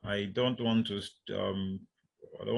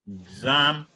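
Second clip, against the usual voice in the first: "exam" said louder on "zam"; secondary stress on exam; 3 dB louder than usual. Shown as a demonstration. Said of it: "the secondary stress is on".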